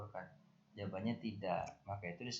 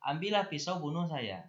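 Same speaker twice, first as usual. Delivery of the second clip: a louder, higher mock of a parent's harsh outburst; harsh angry words; 6 semitones higher, 5 dB louder than usual. Teacher quoting a furious parent's harsh words, mock anger. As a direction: bark it like a parent losing their temper. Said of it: "bahasa kasar".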